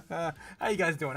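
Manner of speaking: chuckling through the greeting, slowed down; laughing. Real, not acted. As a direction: let a laugh carry the words, slowly. Repeated greeting, first one laughing.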